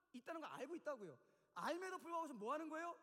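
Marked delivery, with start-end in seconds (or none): none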